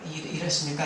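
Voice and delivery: slow, softening lament, quoted from the pulpit; a preacher's slow imitation of a sighing prayer; retold lament. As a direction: draw out the plea as an understated lament, letting it sink. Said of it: "라고 하는 이 탄식".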